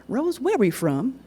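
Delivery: put-on high, slow child's question; boy asking his big sister, high and slow; young boy asking. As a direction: stretch it out like a curious kid.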